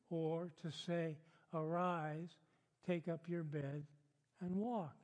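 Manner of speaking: measured Bible reading in phrases; deliberate pulpit reading; scripture reading. Acted. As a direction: read the passage aloud to a congregation, pausing between phrases. Reads the passage aloud.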